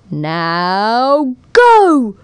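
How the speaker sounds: loud firm call; command. A narrator's reading. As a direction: give the starting word with force. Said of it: "when at last she said".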